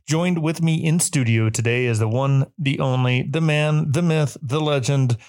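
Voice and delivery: slow, drawn-out hype build-up; hype man intro. Pretend. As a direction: build the guest up like an announcer. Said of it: "to be a hype man for people".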